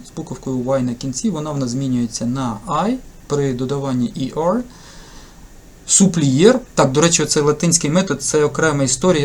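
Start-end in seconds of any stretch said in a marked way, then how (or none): 5.9-6.6 spell-it-out pronunciation: Суплієр, each letter as written; Latin-method reading. Shown as a demonstration. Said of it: "Я завжди кричу".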